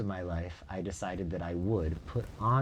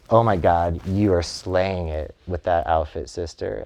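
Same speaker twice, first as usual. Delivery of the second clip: gushing sassy praise, a bit louder; sassy feminine; 7 dB louder than usual. Shown as a demonstration. Complimenting a friend's outfit as Vivian, sassy. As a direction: hype up a friend sassily. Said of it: "really sassy and very feminine".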